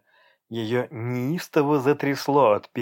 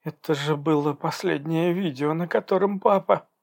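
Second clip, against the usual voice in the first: high, breaking voice on the verge of tears; sobbing; 6 semitones higher than usual. Acted. Daughter grieving over broken video of father, tearful. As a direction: cry out over the lost video. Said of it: "всхлипнув".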